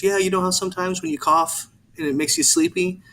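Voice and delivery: put-on a sweet, talking-to-a-toddler lilt; aunt soothing child. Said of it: "Aunt Cheryl goes".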